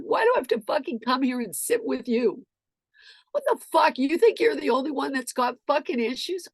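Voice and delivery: high, heated challenge; re-enacted outraged tirade; angry rant. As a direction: rail at him indignantly. Acted rant at teen.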